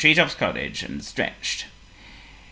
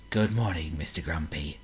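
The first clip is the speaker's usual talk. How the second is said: cheery greeting; 5 semitones lower, 8 dB quieter than usual. Acted. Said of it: "with a cheery wave".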